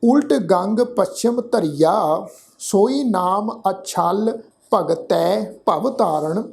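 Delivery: slow, measured reading of sacred verse; scripture recitation. Shown as a demonstration. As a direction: recite it slowly, drawing out the words. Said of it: "ਫਿਰ ਤੋਂ ਪਾਠ ਉਚਾਰਨ ਕਰਦੇ".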